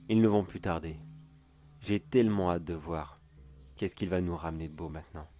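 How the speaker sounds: theatrical sinister storyteller voice; gloating villain monologue. Acted. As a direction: tease the listener like a smug creep.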